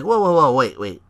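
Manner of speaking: high, loud, slow mock outrage; hammed-up outraged manager breaking into a laugh; Paul Heyman impression. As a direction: play the indignant advocate for laughs. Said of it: "And Heyman's like".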